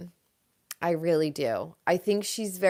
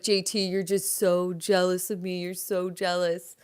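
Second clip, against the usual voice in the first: a light hint of taunting Austin; lightly mock the smug jab; imitating Austin. Austin taunting J T about jealousy, light mock smugness. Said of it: "And Austin's like".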